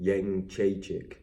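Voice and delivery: Jędrzejczyk sounded out slowly; attempted Polish pronunciation. Shown as a demonstration. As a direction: try saying Jędrzejczyk, slowly and carefully. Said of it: "Oh, I'll try it".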